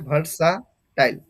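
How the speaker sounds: ভার্সা টাইল with a pause before টাইল; ভার্সা and টাইল as separate pieces; pronunciation in parts. Shown as a demonstration. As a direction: say ভার্সা, hold off, then টাইল. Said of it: "এটার pronunciation বা উচ্চারণ".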